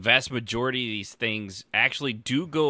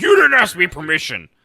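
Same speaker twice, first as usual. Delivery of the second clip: indignant complaint; 7 semitones higher, 13 dB louder than usual. Retold or imitated.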